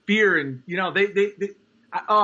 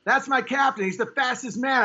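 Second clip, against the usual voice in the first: mock admiring fan; 6 semitones higher than usual. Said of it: "it's like".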